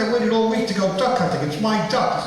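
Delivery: high, fast pleading; whiny hunter. Acted. Hunter protesting to farmer.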